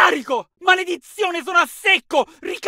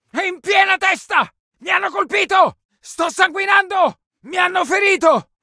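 alarmed combat yell; wounded shout. Acted. Hit soldier alerts squad, shouting. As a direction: cry out that you're hit.

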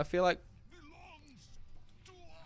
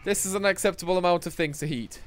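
excited; 6 semitones higher, 7 dB louder than usual. Real, not acted. Excited at group.

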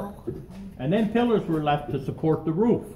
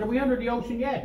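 high-pitched imitation of a woman calling up; retold tourist's high, insistent question; mock holler; 8 semitones higher, faster than usual. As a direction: pitch it well up, as if calling ahead, without shouting. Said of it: "she hollered up again".

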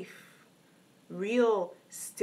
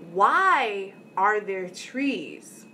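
put-on curious little boy; 5 dB louder, much slower than usual. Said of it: "and he says".

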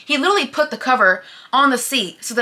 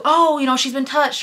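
higher, louder mock gossip tone; 6 semitones higher, 4 dB louder than usual. Imitating what people assume, mock gossip tone. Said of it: "people immediately go to".

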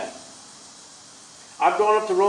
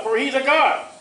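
raised, high mocking cry; 4 semitones higher than usual. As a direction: taunt them as the prophet. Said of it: "Elijah mocked and cried aloud".

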